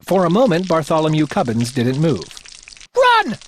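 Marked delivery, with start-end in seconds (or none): 2.9-3.4 king barking at his page; barked order. Acted. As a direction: bark it out. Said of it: "barked the king".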